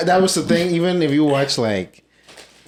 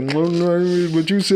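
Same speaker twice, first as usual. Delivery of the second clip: put-on Bahamian accent; 6 semitones higher, slower than usual. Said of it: "Bahamian women when they eating food".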